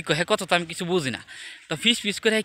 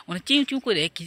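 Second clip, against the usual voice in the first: mock chirping; 4 semitones higher, faster than usual. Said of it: "করে কথা কয়".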